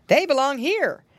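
lifted, clear rabbit uncle voice; Uncle Wiggily. A narrator's reading. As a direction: say it high and plainly as the rabbit. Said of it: "he said".

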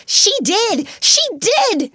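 high, loud insistent repeat; hysterical cry. Acted. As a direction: cry it out, half out of control. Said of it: "she cried".

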